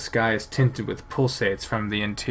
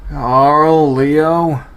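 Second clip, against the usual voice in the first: loud calling for friends; 5 semitones higher, 9 dB louder than usual. Acted. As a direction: call out their names.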